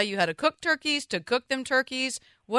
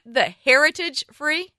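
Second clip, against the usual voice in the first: puzzled query; 5 semitones higher, 4 dB louder, slower than usual. Real, not acted. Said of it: "He-, heritage breed".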